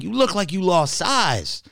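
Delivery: high, slow mock-impressed voice; imitating the fan. Drive-thru worker remarking on his weight loss, high slow voice. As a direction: drag it out high and amazed. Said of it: "He's like".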